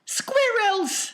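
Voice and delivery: put-on high, loud spoilt-girl shout. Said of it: "shouted Veruca Salt".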